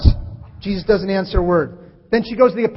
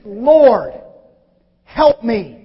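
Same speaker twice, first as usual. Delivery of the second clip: pleading; 8 dB louder, much slower than usual. Acted. Woman's plea retold.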